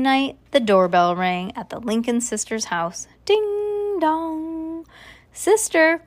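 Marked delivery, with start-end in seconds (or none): 3.2-4.9 high sung ding-dong; doorbell chime. A narrator's reading. Reader voicing the doorbell on Halloween night, chiming. 5.3-6.0 high, raised call. A narrator's reading. Baby calling her sister to the door, calling out. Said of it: "called baby Lincoln".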